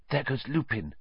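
hushed soft voice; whispering. A narrator's reading. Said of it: "Hermione whispered".

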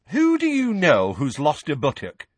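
put-on high, curious young witch; interested. A narrator's reading. Witch questioning Moody about buttocks, keenly interested. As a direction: ask high with keen curiosity. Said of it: "asked Mad-Eye interestedly".

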